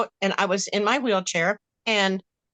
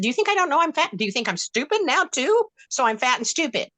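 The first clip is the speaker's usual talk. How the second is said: confronting; 5 semitones higher than usual. Retold or imitated. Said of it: "I'm in there confronting him".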